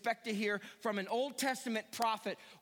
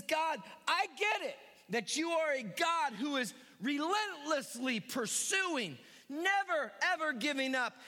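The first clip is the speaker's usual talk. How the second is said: calling out; 3 semitones higher than usual. Retold or imitated. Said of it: "he calls out and he says".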